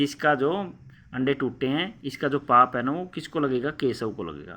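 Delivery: mild anger. Acted. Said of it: "गुस्से के भाव में कह रही है".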